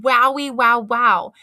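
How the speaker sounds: amazed wowie. A narrator's reading. Girl seeing clown face in mirror, amazed wow. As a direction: gasp it out in delight.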